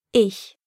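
ich, German ch like a hiss. Shown as a demonstration. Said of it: "as in the German word for I".

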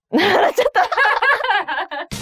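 high, slow, laughing through the words. Real, not acted. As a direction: laugh at your own bad luck. Laughing at own misfortune.

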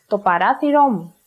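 "παράθυρό μου" stressed on ρά and ρό; "μου" unstressed after stressed ρό; double stress. Shown as a demonstration. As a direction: say "παράθυρό μου" closely joined, hitting both accents. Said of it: "stressing the two accented syllables".

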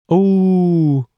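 high, loud drawn-out howl; wolf howl. Retold or imitated. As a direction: throw back your head and howl. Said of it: "That was a really good wolf impression".

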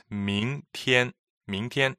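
"明天" with rising ming and level tian; "明天" repeated clearly for learners; modeling tomorrow. Shown as a demonstration. Host models the word for listeners, carefully. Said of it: "the word for tomorrow".

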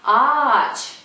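ağaç with the ğ lengthening the vowel; Turkish soft g. Shown as a demonstration. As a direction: say ağaç as a long a-a-ch. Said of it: "before I make the sound".

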